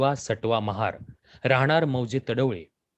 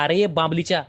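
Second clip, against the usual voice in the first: higher, faster, threatening outburst; louder, raging challenge at the doctor; furious shout; 5 semitones higher, 4 dB louder than usual. Acted. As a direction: roar it out, raising the broken shoe. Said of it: "घेऊन ओरडला".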